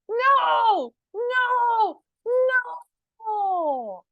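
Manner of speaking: high, loud, head-shaking no; loud angry no. Acted. Reading to children, the angry bunny shouts no. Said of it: "loudly says".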